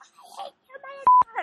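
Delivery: very slow, high, stretched-out screaming. Describing a Showtime commercial where a woman yells at a guy, acting out a scream. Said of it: "she's screaming at this guy".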